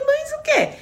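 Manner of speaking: high, startled "what?"; shocked disbelief. Retold or imitated. Telling a friend about her shock, high startled disbelief. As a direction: gasp it out in disbelief.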